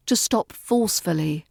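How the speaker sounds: ordinary talk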